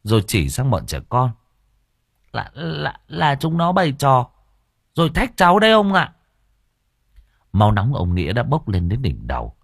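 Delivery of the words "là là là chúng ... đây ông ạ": put-on shaky frightened child voice, much higher; trembling child. A narrator's reading. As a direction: push the excuse out through fear. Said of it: "hít một hơi cho đỡ run". (giọng trẻ con run rẩy)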